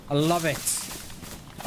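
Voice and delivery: very slow, drawn-out love it; slow savoring. Real, not acted. Savoring the friend's photo, very slow and drawn out. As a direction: stretch I love it out slowly, savoring each word.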